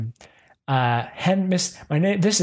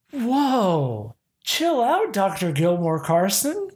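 mock shocked; 5 semitones higher, slower than usual. Real, not acted. Reacting to threatening line.

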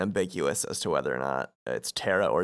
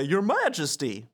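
pitched-up reverent greeting; cartoon sidekicks; 7 semitones higher than usual. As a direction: hail the king as a cartoon sidekick. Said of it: "Goofy and Donald say".

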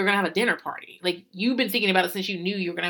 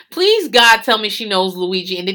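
pleading through laughter; 6 dB louder than usual. Real, not acted. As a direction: beg while cracking up. Helpless laughter at Luigi's casting.

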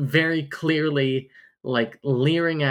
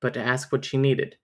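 romance novel narrator. Acted. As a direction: lightly read book narration. Reads a romance novel passage.

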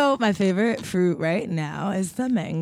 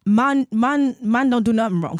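London slang accent; 3 dB louder than usual. Shown as a demonstration. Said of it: "I feel like I'm doing it wrong".

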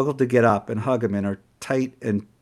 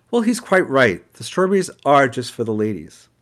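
voiced manager; 4 dB louder than usual.

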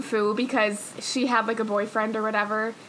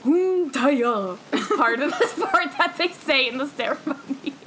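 laughing; 3 semitones higher than usual. Real, not acted. Recalling show ceremony chant, laughing.

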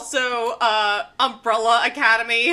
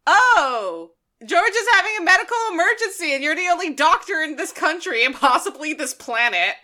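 Raymond acted; 5 semitones higher than usual. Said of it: "and Raymond's like".

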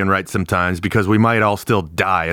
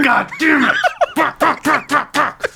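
screamed curses, much higher; furious high shout; slower than usual. Acted. Player shrieking curses at his locked-in brother. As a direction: explode in frustrated rage.

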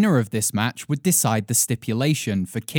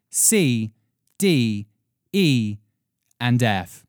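news read. Acted. Mock markets report read.

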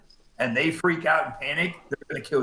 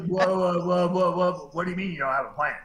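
mock alarm; 3 semitones higher than usual. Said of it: "he goes".

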